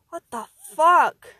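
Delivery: loud, high, drawn-out groan of pain; groaned outburst. Acted. Man just punched by his best friend, loud pained groan. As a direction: groan it out at full volume, slowly. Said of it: "groaned Steve".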